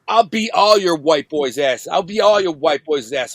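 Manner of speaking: slow, drawn-out retold threat; punking them out. He threatens the guys from Flint, punking them out. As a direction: imitate a bully talking big, taking his time. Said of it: "he was punking out these white dudes".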